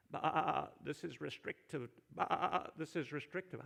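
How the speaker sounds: bleating mock sheep voice, grumbling; sheep impersonation. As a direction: play a sulky sheep complaining with a bleat. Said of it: "That was my best sheep impersonation".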